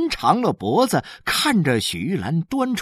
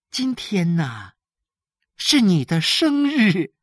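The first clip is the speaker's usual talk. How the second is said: lightly voiced wife, pitched higher; tender wife; 5 semitones higher than usual. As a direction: share a loving surprise with the husband. Voices wife revealing birthday surprise.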